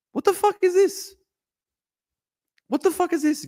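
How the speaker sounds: very high-pitched bewilderment; incredulous. Real, not acted. Streamer faced with repeated Gilgamesh messages, incredulous. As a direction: voice shooting up in disbelief.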